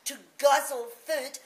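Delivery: put-on a child insisting desperately; child begs Mummy to believe; pleading child. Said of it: "I cried".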